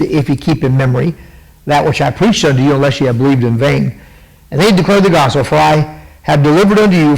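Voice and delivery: measured, solemn Bible reading; scripture reading. Acted. Host reads Paul's gospel words to viewers, solemn and measured. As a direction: read it like a lesson from the pulpit.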